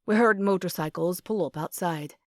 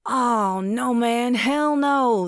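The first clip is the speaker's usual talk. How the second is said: emphatic denial; 4 semitones higher, 5 dB louder, much slower than usual. Acted. James hastily denies coming for debt.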